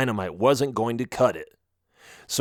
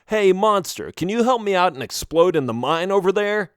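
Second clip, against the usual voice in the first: higher, lightly put-on asking voice; mock request; 6 semitones higher than usual. Melvin imagines asking a monster for help, mock request. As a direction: pose it as an absurdly casual favor.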